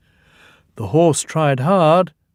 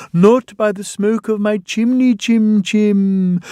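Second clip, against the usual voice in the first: raised, louder refusal; playful Toby; 8 semitones higher, 4 dB louder than usual. A narrator's reading. Toby answering the ghost in the nursery rhyme. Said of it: "answered Toby".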